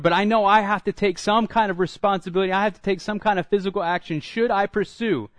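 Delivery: desperate plea. Acted. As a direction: beg God for a way forward, voice climbing. David's desperate plea to God.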